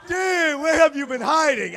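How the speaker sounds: high, loud call to a long-lost friend; hollering friend. Retold or imitated. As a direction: call it out like an oblivious, thrilled friend. Friend hollering across the airport.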